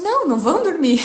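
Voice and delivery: loud, high mock refusal; retold angry contradiction. Imitating husband overruling her on bedtime, indignant.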